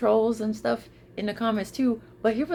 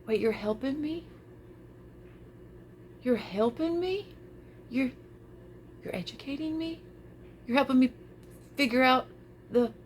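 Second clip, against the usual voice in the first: retold amazement; 6 semitones higher, 4 dB quieter than usual. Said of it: "And I'm like".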